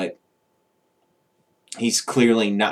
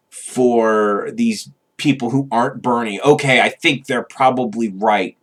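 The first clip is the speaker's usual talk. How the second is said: confused old voter impression; 3 semitones higher, 4 dB louder than usual. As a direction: ham up a clueless, scared old voter parroting the media. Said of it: "my best, uh, impression of him to try to be a typical Joe Biden, uh, voter".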